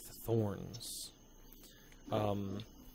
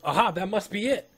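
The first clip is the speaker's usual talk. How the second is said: high-pitched amazed discovery; excited, wondering exclamations; 9 semitones higher than usual. Acted. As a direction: marvel at a strange find, voice lifted high. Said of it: "he's excited, very excited".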